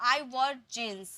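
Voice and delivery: very slow careful model sentence; slow correct model. Shown as a demonstration. Teacher gives the corrected sentence without the article. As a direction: lay each word out for the class. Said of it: "तो".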